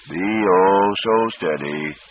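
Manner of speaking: slow, soothing calm. Acted. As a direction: gently settle a nervous horse. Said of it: "the horse doctor said calmly".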